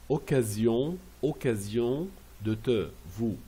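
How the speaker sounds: "occasion" said carefully and repeated; pronunciation model. Shown as a demonstration. Teacher showing pronunciation, careful repetition. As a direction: set "de te" and "vous" apart. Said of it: "c'est pour la prononciation".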